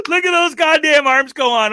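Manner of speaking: laughing while talking. Real, not acted. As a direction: gasp it out still laughing. Laughing at the dancer.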